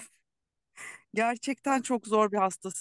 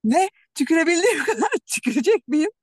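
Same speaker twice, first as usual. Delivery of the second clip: laughing disbelief, higher and louder; incredulous; 5 semitones higher, 6 dB louder, faster than usual. Real, not acted. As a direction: laugh it out in shock. Incredulous at the doctor's advice.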